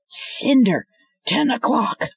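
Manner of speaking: high, sharp call out; man warning Cinder of attacker; urgent warning shout. Acted. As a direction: warn her fast.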